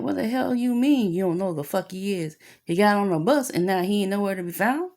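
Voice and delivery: retold disbelief, pushing for an answer; indignant parent. Parent challenging teacher over a missing son, indignant.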